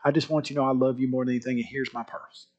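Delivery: low, soft retold sadness; tearful giving in. Crying daughter gives dad her pearls, subdued and soft. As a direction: quietly hand it over, understated sorrow. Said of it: "she's just crying".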